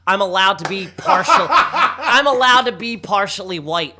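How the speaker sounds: laughing while defending herself. Real, not acted. Defending herself to Rob, laughing. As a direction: laugh through the words.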